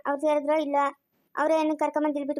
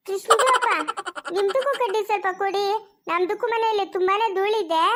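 slightly high neighbour woman in broken Kannada; lightly voiced, wheedling neighbour asking for help; chatty neighbour Padma; 4 semitones higher than usual. (ಒಡಕು ಕನ್ನಡದ ನೆರೆಮನೆಯಾಕೆಯ ದನಿ)

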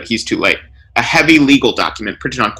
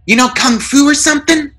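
snide. A narrator's reading. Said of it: "says snidely".

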